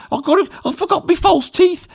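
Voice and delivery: very high Black Country wail; Black Country accent. Shown as a demonstration. Nan remembering her false teeth, in a high Black Country accent. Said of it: "So that would have been like this".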